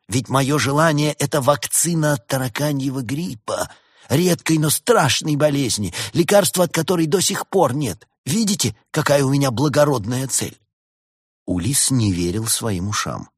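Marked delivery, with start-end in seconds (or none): 0.1-10.6 higher-pitched, self-righteous doctor; lofty sales pitch; grandiose doctor. A narrator's reading. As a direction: proclaim a noble mission in a raised voice. Doctor pitches his noble goal.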